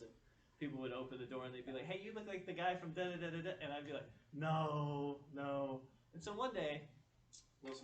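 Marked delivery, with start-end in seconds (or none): 1.9-3.5 higher-pitched imitation of a stranger; retold excited recognition. Retold strangers greeting him at doors. 4.3-5.8 loud, drawn-out mock refusal; retold firm denial.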